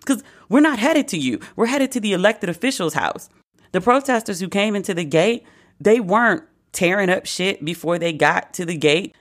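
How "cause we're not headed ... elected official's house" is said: high disbelieving squeak; high-pitched incredulous mock voice; incredulous protester. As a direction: play it like you can't believe your eyes. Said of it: "They're just like".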